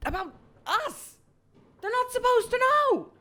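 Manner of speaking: high, loud, fast panic; alarmed outburst. Acted. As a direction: blurt it in alarm. Character alarmed that secret is out.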